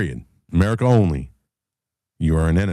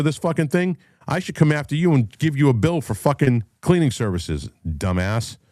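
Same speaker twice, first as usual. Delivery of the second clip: heated, pitched-up rant at a litterer; angry rant; 6 semitones higher than usual. Real, not acted. Ranting at the woman who littered in DC, heated. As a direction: tear into her for littering. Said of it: "I got off on a rant".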